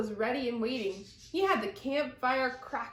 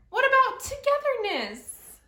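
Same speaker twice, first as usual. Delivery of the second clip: high, louder pleading call; plaintive cry; 13 semitones higher, 7 dB louder than usual. Acted. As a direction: beg them to stay together. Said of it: "cried Moose".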